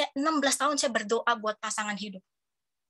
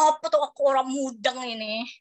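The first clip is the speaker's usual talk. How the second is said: confused exclamation. Retold or imitated. Retelling confusion at test.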